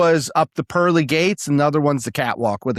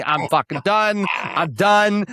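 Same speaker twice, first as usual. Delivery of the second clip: panicked; 4 semitones higher than usual. Retold or imitated. Retold panic on the mountain.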